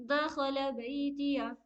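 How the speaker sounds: slow, दखला with a heavy throaty ख; full-mouthed ख. Shown as a demonstration. Teacher demonstrating heavy ख to students. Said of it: "ख्वा को मुंह भर के पढ़ेंगे".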